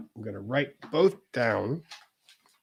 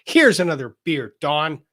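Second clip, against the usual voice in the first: mock indignant, higher and louder; 3 semitones higher, 5 dB louder than usual. Handing Don a beer, hammed-up indignant. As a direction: hand the beer over with put-on indignation. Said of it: "I hope that was sufficiently indignant".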